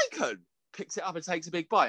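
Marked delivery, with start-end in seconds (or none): 0.1-0.4 high cry of the food name; mock food announcement. Mimicking the TikTok eater announcing bacon, hammy. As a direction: proclaim the bacon. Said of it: "he's like".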